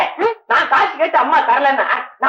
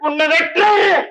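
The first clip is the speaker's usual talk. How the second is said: slow mock threat; slower than usual.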